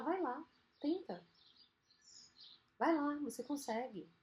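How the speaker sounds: soft, encouraging nudge; kind inner voice. Acted. Kind inner voice to a doubter, gently encouraging. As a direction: gently coax someone to give it a try. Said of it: "alimentar uma outra voz querida".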